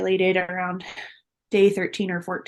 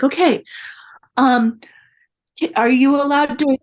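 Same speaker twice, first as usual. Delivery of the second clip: starts in a whisper, then higher and louder; imitating a flustered husband; 5 semitones higher, 5 dB louder than usual. Husband reacting to the positive test, whisper rising to flustered questions. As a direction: rush the questions like a panicked husband. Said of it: "he freaked out too".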